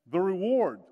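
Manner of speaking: punching the reward home. Real, not acted. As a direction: proclaim the reward, loud and clear. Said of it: "The reward for".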